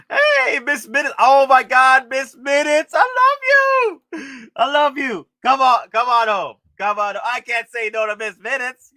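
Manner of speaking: high, loud gushing over the figure; gushing excitement. Real, not acted. Streamer gushing at his new figure, high and excited. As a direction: coo at her like a beloved pet.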